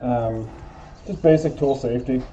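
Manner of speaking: muffled through a respirator; talking behind a snug mask; through an n95 mask. Real, not acted. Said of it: "messing with my respirator".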